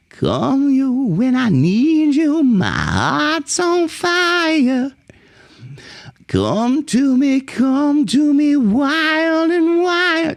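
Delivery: nasal high singing sliding in; twangy onsets. Shown as a demonstration. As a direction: slide into each onset through the nose. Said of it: "Almost every onset is like".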